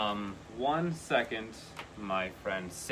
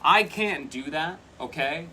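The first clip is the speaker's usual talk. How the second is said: excited; 5 semitones higher, 7 dB louder than usual. Real, not acted. Card she wanted flips out.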